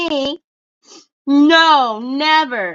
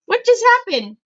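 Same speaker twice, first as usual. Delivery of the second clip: surprised; 8 semitones higher, faster than usual. Retold or imitated. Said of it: "it's like".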